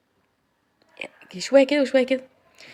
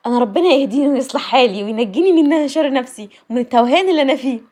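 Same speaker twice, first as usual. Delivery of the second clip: laughing; 5 semitones higher, 7 dB louder than usual. Retold or imitated. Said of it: "قلتها وأنا بضحك".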